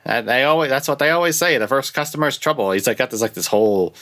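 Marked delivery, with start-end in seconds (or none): 0.0-2.7 bright, higher salesman pitch; radio announcer voice. Retold or imitated. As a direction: sell it like a used car radio ad. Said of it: "this radio announcer voice".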